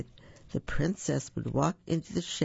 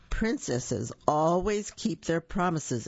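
insisting; 3 semitones higher, slower than usual. Acted. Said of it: "insisted the king".

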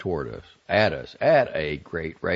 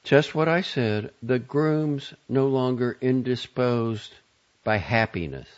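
slow, raised, emphatic delivery; familiar emphatic inflection; 7 semitones higher, 4 dB louder than usual. A narrator's reading. Matron of honor announcing news of the groom, emphatic inflection. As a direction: spell it out with heavy inflection. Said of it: "A familiar style of inflection was back".

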